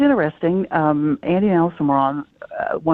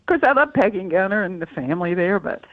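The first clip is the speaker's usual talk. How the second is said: crying on the phone. Real, not acted. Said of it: "I'm sorry we made you cry".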